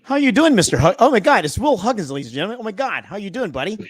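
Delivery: loud, high, swooping welcome; real excited surprise, pitch leaping up; excited greeting. Real, not acted. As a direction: hail a buddy like a show announcer. Host greets surprise guest Will.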